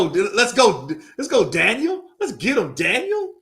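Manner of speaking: high, loud cheer for Daniel; root him on at full voice. Real, not acted. Cheering for the fighter.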